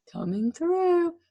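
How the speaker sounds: loud high slow call; bossy call. Acted. Teacher stomps through the hall, calling loudly. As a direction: announce it as you barge past.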